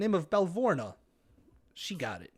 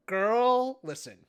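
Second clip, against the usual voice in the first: put-on Valley Girl voice; 5 semitones higher, much slower than usual. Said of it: "Valley Girl voice".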